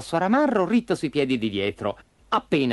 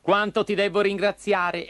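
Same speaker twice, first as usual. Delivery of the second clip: higher puppet voice, relieved thanks; grateful puppet; 6 semitones higher than usual. Acted. Pinocchio safe at last thanking the dog, grateful. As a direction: exclaim your thanks in a lighter voice.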